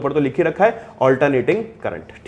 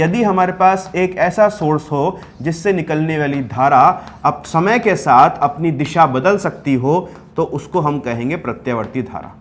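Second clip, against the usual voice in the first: slow dictation; slower than usual. Shown as a demonstration. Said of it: "जो मैं बोल रहा हूं उसको आप अपनी कॉपी में लिखें".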